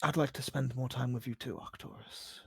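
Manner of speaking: low, hushed and hesitant; vulnerable game character. Acted. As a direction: confide softly with long pauses.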